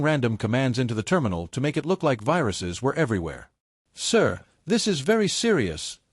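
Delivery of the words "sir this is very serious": higher, mock grave warning; dramatic tone. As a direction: lean hard on the danger. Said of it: "Daniel said in a dramatic tone".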